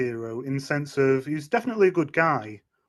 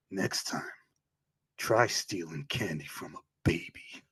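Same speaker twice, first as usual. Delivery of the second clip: Cable line; 6 semitones lower, 6 dB quieter than usual. Retold or imitated. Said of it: "He just go".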